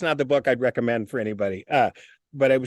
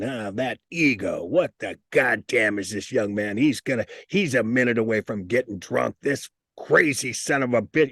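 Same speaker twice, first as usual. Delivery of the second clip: a hint of a crotchety old man; crotchety old-timer; 4 semitones lower than usual. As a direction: voice the old sober veteran complaining. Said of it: "you know, old, old, you know, veterans".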